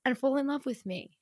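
hushed conspiratorial whisper; breathy secret whisper; whispered aside. Acted.

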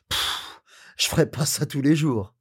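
soft pff. Acted. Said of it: "poussa un soupir de soulagement".

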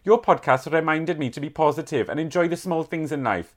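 put-on Welsh letter-reading voice; Welsh accent. Reading a Welsh listener's thankful letter, in a Welsh accent. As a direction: read it aloud in a Welsh accent. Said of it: "I can do my Welsh accent".

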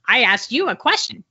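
put-on kid's robot voice with swooping pitch. Storyteller mimics the ignored kid insisting, robot voice. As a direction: imitate a child demanding answers as a robot. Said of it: "bot voice again".

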